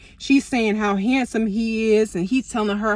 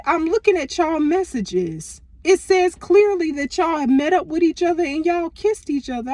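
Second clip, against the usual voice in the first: raised, insistent accusation; retold confrontation; 6 semitones higher than usual. Showing her cousin the messages, raised insistent accusation. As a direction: lay out the proof to her face. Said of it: "I said".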